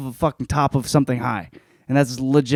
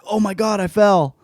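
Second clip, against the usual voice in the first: hammed-up cry, a bit higher; mock panic; 8 semitones higher than usual. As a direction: playfully fake a fall. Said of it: "He's jumping back, like".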